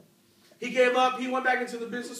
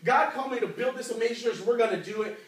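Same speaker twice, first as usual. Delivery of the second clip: eager retelling, slightly lifted; a touch of excited resolve; 2 semitones higher than usual. Retold or imitated. Pastor announcing the church God called him to build, mildly excited. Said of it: "He was excited".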